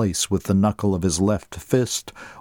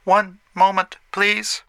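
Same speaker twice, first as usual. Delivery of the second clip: high, polite computer voice; female system voice; 10 semitones higher than usual. A narrator's reading. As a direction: answer like a phone assistant. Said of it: "replied in a female voice".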